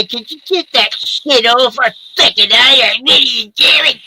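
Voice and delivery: put-on angry girlfriend voice. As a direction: snap at them to turn it off. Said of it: "I love when you do angry".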